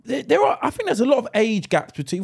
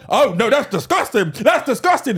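prim mock outrage; 4 semitones higher than usual. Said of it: "Captain Proper here".

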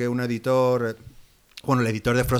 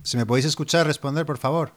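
melodramatic distress call; 3 semitones higher than usual. Acted. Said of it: "¿Cómo, cómo te gusta el melodrama?".

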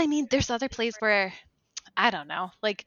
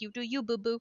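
mock Lady Macbeth; 9 dB quieter than usual. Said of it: "She like".

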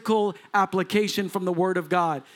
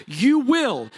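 "you will" raised and forceful; stress on will; 4 semitones higher, 4 dB louder than usual. Real, not acted. Preacher warning the careless congregation, "you will" hit hard. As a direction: drive home "you will" as a certainty. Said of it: "not you might".

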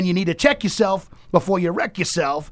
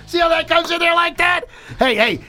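excited; 11 semitones higher, 5 dB louder than usual. Real, not acted. Host reacts to break music.

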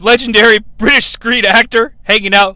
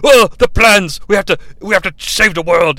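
hammed-up Hopkins. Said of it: "talking to a tennis ball as Cogman and being like".

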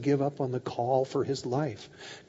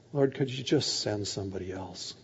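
low, softer humble request; acted quiet surrender; resigned plea; 5 semitones lower, 5 dB quieter than usual. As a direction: ask meekly, without any argument. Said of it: "He's no longer arguing".

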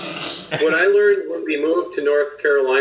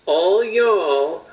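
Southern y'all. Shown as a demonstration. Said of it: "I can say this word".

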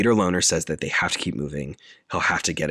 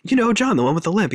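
prompting friend, acted; 6 dB louder, faster than usual. Retold dialogue, Robert prompting Colin.

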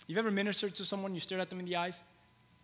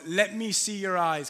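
slow dictation; 3 semitones higher, 6 dB louder, slower than usual. Shown as a demonstration. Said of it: "Can you write that down?".

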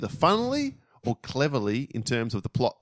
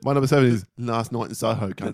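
bad English accent. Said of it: "I don't know what Soho accent is".

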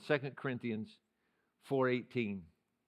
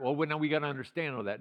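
mock objector; 2 semitones lower, faster than usual. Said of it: "we're not to delve into".

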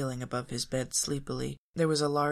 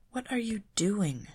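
Velma demanding; 7 semitones higher than usual. A narrator's reading. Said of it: "she demanded".

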